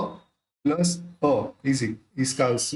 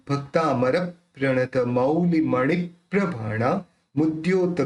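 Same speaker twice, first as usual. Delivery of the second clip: measured spoken verse recital; pronunciation model. Shown as a demonstration. Teacher modelling the whole verse for students, measured recitation. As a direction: recite slowly, syllables distinct, in speaking rhythm. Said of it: "ये इसका उच्चारण निकलेगा".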